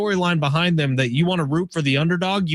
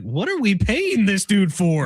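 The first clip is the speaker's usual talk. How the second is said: slow, high, exasperated mock question; lightly voiced indignant school official; mock outrage; 5 semitones higher, slower than usual. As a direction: act out a fed-up athletic director. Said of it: "L S U's gotta be like".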